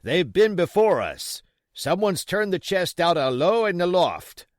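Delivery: loud, high pirate report; a pirate calling from the window, high and loud. Acted. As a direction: shout the news down.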